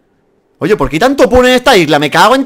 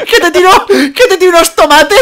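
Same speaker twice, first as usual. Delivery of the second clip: higher, louder mock threat through laughter; imitating laughing; 12 semitones higher, 5 dB louder than usual. Friend imitating the French bit, laughing loudly. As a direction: parrot the French joke, laughing. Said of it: "¡Míralo, es francés!".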